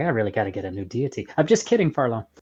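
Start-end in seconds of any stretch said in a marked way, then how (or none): 0.0-1.3 muttering under breath, lower and quieter. Player in a tabletop game speaking as their character mid-fight, muttering to self. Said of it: "I'm muttering to myself like".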